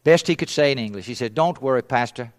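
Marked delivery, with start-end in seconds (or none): 1.3-2.3 imitating a kindly, careful non-native speaker; mildly gentle, measured delivery; gentle reassurance. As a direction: break it to them kindly. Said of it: "he said it with a gentle heart".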